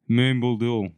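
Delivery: Moombuldul read with "oo" sounds and a final L; Moombuldul, falling onto a closing L; mistaken town-name pronunciation. Shown as a demonstration. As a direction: sound out Moombuldul as spelt, ending in "dul". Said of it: "That's wrong".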